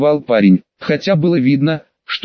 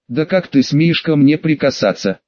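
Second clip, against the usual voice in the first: ordinary delivery, nothing marked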